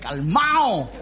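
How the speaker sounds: low, laughing repeat of calmao; a tickled low "calmao"; laughing echo. Shown as a demonstration. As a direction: say calmao again, chuckling and low. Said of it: "echo of "Ya, calmao".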